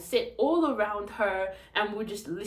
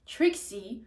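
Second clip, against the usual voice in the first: eyes wide realization; 3 semitones higher, 3 dB louder, slower than usual. Shown as a demonstration. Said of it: "your eyes can get bigger like Trixie".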